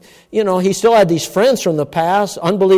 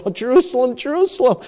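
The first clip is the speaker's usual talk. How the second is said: higher-pitched, mildly plaintive cry; retold tearful plea, pitched up; retold weeping lament; 5 semitones higher than usual. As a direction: lament over the city without real sobbing. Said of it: "he wept to tears".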